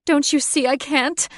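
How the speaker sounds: put-on high, loud snarl from a monster girl; the half-bird Catherine snarling at her captive. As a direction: snarl it down at the witch. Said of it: "Catherine snarled down".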